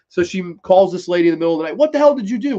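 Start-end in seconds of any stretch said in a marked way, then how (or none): 1.8-2.6 retold yell. Angry late night call.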